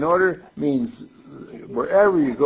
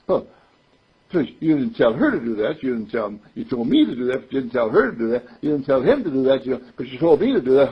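fast, louder mock snippy complaint; 3 dB louder, faster than usual. A hint of a child snipping back at Mommy, fast and louder. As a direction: rattle it off like a sulky child. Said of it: "you know, snippy".

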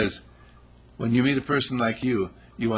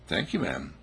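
low, soft, gruff thanks; lowered man's voice; 6 semitones lower, 6 dB quieter than usual. Retold or imitated. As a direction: drop into a deep guy voice.

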